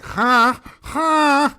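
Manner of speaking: high, loud snooty huh; Alec Baldwin critic impression. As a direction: squawk it like a prissy reviewer. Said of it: "He's like".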